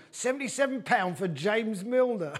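slow, laughing mock moan; moaning fan. Fan moaning on YouTube about the fee, slow mock whine. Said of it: "Liverpool fan on YouTube moaning".

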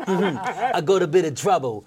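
slow sitcom impression; Frank Spencer. Someone on the panel joining the requested impression, slow hapless voice. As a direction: drag out the hapless complaint. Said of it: "Okay, Frank Spencer".

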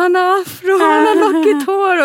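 high, loud, thrilled exclamation; acted elated discovery. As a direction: exclaim it in hammed-up wonder. Acting out joy at feeling hair.

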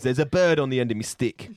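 Cockney shout. Pretend. Host shouting a Cockney sweep punchline. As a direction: bellow it like a Dick Van Dyke sweep.

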